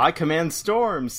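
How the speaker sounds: grand villain boast. Acted. Quoting Dracula's boast against Thor, slow grand voice. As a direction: draw it out with hammed-up pomp.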